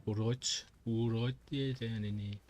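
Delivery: Birmingham-area Brummie twang; Black Country accent. Shown as a demonstration. Streamer showing accents from Birmingham way, Black Country accent. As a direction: demonstrate a Black Country greeting. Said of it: "the Black Country".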